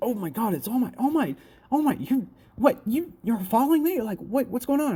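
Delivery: put-on starstruck, stammering, high, fast gushing babble. Retelling how Izuku fanboys on seeing All Might: imitating Izuku fanboying. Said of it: "kind of fanboys out".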